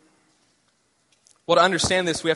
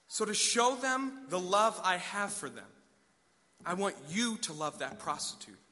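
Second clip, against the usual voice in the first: tender God. Acted. God's tender command to love.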